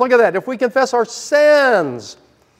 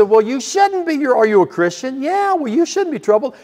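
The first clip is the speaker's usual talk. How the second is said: dismissive counselor; 5 semitones higher than usual. Retold or imitated. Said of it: "And he said".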